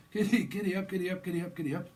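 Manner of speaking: high, rapid-fire repeated urging; mock riding cheer. Lover full of Monster energy to partner, excited mock cheer. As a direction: egg them on like a galloping rider.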